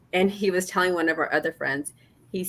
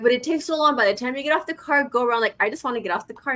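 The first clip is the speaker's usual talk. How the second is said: pitched higher, mock whiny protest; higher playful whining; whiny complaint; 5 semitones higher, faster than usual. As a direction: whine like an impatient wife. Retelling her own complaint.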